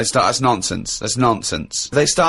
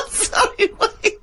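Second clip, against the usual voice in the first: laughing; slower than usual. Real, not acted. Laughing at Carl.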